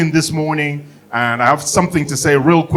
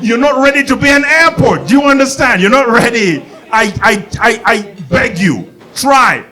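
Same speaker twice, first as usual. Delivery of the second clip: climactic shout; 7 semitones higher than usual. Real, not acted. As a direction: yell it out, way up high. Climactic rant at airports.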